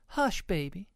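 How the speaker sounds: high Mama pig hushing; mild scolding. A narrator's reading. Mama pig quiets her excited baby, lightly scolding. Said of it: "scolded Mama Sniff".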